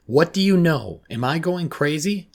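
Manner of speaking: high, loud frantic questioning; yelled. A narrator's reading. Girl asking counsellor if she is going crazy, frantic yell. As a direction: demand it in a panic. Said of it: "I yelled".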